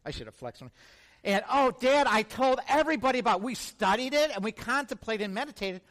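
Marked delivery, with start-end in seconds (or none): 1.5-5.8 fast, higher protest; eager pleading kid. Retold or imitated. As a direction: rush to prove his devotion. Son defends himself to dad.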